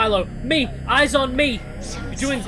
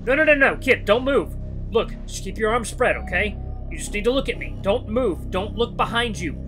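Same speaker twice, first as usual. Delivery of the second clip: high, louder, anxious coaxing; urgent pleading; 7 semitones higher, 5 dB louder than usual. Acted. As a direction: keep a frightened kid from moving. Urgently steadies endangered child.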